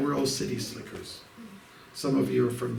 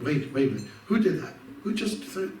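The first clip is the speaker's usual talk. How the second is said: retold upset outburst; 5 semitones higher than usual. Leader confronting the chanting party over the bottle, upset. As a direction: call out the culprit in mock alarm. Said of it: "I got upset".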